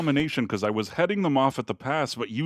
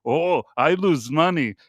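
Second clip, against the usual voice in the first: imitating Thai vendor; slower than usual. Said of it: "I go".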